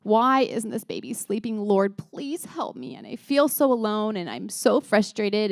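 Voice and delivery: slow, emphatic mock yell at God; imitating frustrated prayer. Exhausted mom crying out to the Lord, retold frustration. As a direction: drag out each plea in retold exasperation. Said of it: "she just almost yelled at God".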